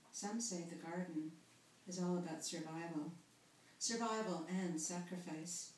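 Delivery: measured recital with pauses between phrases; poem reading. Acted. Poet reading garden verse to listeners, measured recital. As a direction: read it out as verse, line by line.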